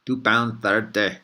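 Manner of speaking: put-on slow Scottish accent slipping toward Irish; a Scottish cabbie voice that slides into Irish; Scottish accent drifting Irish. Vlogger repeating the cabbie's fare, Scottish accent turning Irish. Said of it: "now it's getting a little bit Irish".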